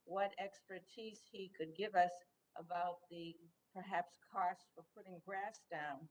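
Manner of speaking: normal talking voice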